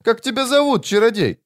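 put-on high childlike questioning; eerie child creature asking a stranger; child-voiced demon. A narrator's reading. Demon asks the wizard who he is, child voice.

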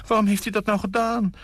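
high, theatrical dismay; tragedienne cry. Acted. Nina acting shocked about the poor wife, theatrical. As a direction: overplay the shock like an actress.

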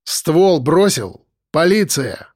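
slow, clear police command; loud and clear. Acted. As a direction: bark it loud and distinct. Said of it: "Громко и отчётливо произнёс".

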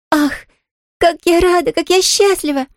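high, bright cry of delight; joyful exclaim. A narrator's reading. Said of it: "просияла от радости".

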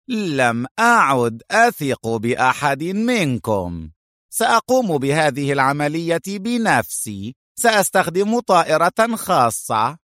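high-pitched, emphatic little boss; distrustful boss. Acted. Boss telling his men he will do it himself, firm.

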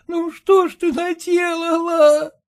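slow, high lamenting mother; voiced mother weeping in reproach; tearful mother. A narrator's reading. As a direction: draw the question out in grief. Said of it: "Обе плакали".

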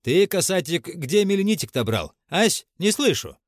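притворно ласковый расспрос; сладко подначивая, выше обычного; насмешливо-ласково. A narrator's reading. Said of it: "Дьяков ласково спросил". (притворно ласково)

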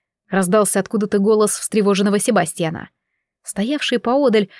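ordinary delivery

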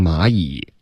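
蚂蚁 gliding from "ma" into a full "yi"; correct glide demo. Shown as a demonstration. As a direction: model 蚂蚁 as English "my", ending on "ee". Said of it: "你要发成蚂蚁".

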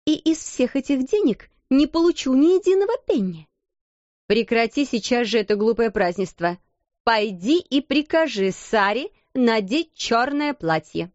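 cold commanding voice; stern headmistress. Acted. Headmistress orders her sister, stern and cold. Miss Minchin ordering, angry.

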